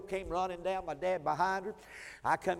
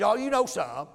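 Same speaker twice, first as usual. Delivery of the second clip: teasing laugh; 4 semitones higher, 8 dB louder than usual. Retold or imitated. Wife teases him knowingly.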